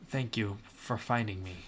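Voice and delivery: frail slow soft voice. Acted. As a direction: speak slowly like a starved captive. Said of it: "he said slowly and softly".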